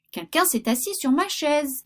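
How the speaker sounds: voix moyenne de l'ours moyen; middle bear's voice. Acted. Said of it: "dit l'ours moyen de sa voix moyenne".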